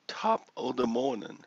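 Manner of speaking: a weak stab at an Irish brogue; Irish accent. Shown as a demonstration. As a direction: lilt it like a stage Irishman. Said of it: "My Irish accent is not very good".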